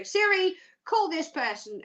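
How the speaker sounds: mock command to a phone assistant; voice command to Siri. Host re-enacting a call to Siri, mock command. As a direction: address the phone, firm at the start. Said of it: "talk to Siri and go".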